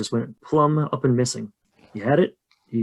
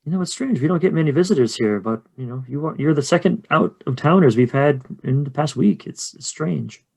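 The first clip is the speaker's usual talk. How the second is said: somewhat higher, chatty local woman; a hint of a gossiping innkeeper; lightly voiced innkeeper, puzzled; 4 semitones higher than usual. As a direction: confide in the visitors about odd goings-on.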